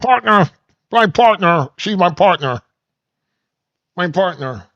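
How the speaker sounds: mock them like a squeaky puppet frog; host mocking women as Kermit the Frog. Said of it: "they sound like Kermit the Frog".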